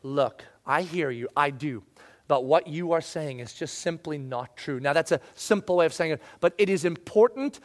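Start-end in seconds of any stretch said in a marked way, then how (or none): 0.0-4.8 calm firm. Shown as a demonstration. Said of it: "You need to step in and say".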